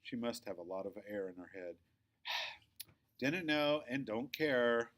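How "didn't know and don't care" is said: slow, dismissive and a touch louder; bored dismissal. Acted. Victoria sighing off the news about Hopper, slow bored dismissal. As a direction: brush it off as if bored. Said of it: "Victoria sighs again".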